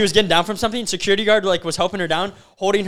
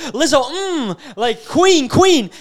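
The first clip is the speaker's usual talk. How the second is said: mock hype with drawn-out cheers; gushing fan girl; 4 semitones higher, slower than usual. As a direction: lightly imitate girls hyping their idol. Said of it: "Oh, they praise her".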